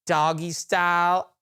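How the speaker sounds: her words as she said them, "doggy style" drawn out slowly; quoting her. Retold or imitated. Coworker quoting the drunk woman in the terminal. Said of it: "She said".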